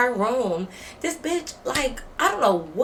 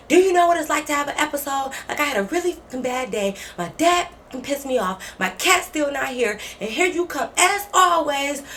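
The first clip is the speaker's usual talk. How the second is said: higher-pitched aggrieved rant; mock indignant venting; 5 semitones higher than usual. Roommate snapping back about her bad day, high aggrieved imitation.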